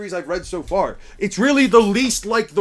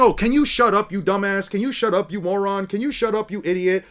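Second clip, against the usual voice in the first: imitating, mildly raised; mocking quote; 3 semitones higher than usual. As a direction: lightly mimic the bickering characters. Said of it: "Everybody's always saying".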